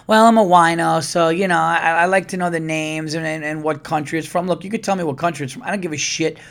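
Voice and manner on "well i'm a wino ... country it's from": lightly voiced wine snob, pitched up; a hint of pretentious connoisseur; mock wine snob. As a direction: poke fun at a self-important wino. Mocking pretentious wine drinkers.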